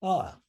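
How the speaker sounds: "Ah" as the open vowel in bra; a set-off demonstration "Ah"; pronounced ah. Shown as a demonstration. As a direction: say "Ah" on its own, open. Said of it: "It is pronounced ah".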